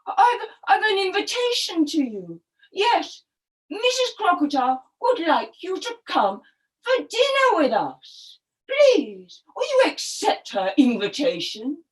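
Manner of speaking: lightly acted, eager crocodile; coaxing crocodile. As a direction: coax a friend with a slightly halting start. Crocodile invites monkey to dinner.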